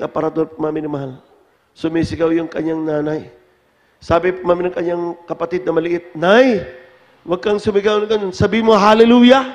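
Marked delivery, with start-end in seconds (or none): 6.1-9.4 put-on raised, higher child's voice telling mom off; a little kid pleading, a touch louder; child's plea. Small child scolding mother.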